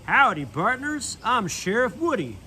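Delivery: lightly voiced cowboy sheriff; a hint of a drawling cowboy; Woody impression. Buzz showing off his Woody impression, lightly voiced. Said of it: "he shouted".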